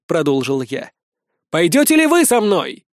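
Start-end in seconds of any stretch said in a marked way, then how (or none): 1.5-2.8 high, ringing question to a crowd; raised public oratory; rallying call. Acted. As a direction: challenge the crowd to follow. Leader rallies the crowd.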